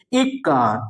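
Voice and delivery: इक्का with weight on इक्, held doubled क; stressed first syllable. Shown as a demonstration. Teacher demonstrating syllable stress to students, stressed इक्. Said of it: "दीर्घ ई की तरह पढ़ा जाएगा".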